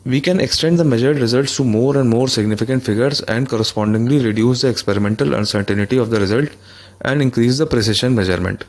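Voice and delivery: slow, careful reading of an English passage; reading the textbook. Shown as a demonstration. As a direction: read it out slowly, word by word. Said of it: "तो कहता है कि". (किताब से धीरे-धीरे पढ़ते हुए)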